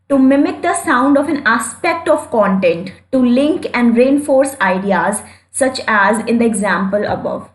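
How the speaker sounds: reading a definition very slowly; slow dictation reading. Shown as a demonstration. Teacher reading the definition slowly for notes.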